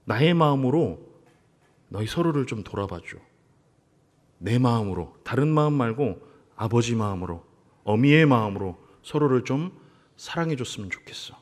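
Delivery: soft, gentle fatherly plea; tender request. Retold or imitated. God gently asking Moses to embrace the people, softly. God's plea over accompaniment music.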